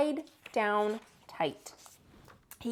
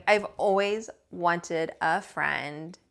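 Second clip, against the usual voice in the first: tender bear voice; 4 semitones lower, much slower than usual. Acted. Bear to Lisa, tender. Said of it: "said Corduroy".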